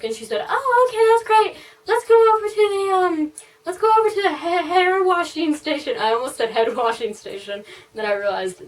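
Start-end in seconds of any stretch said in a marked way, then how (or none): 0.5-6.0 high, bubbly put-on stylist voice; overly cheery hairdresser. Hairdresser leading client to the sinks, overly cheery. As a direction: imitate a perky stylist in a high voice. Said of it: "she seemed overly cheery".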